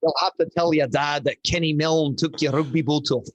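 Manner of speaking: a light, self-mocking stab at a Scottish accent; a hint of Scottish accent, not fully committed; horrible Scottish accent. Rugby coach reassures injured player, lightly put-on Scottish accent. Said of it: "I'm gonna do a horrible Scottish accent".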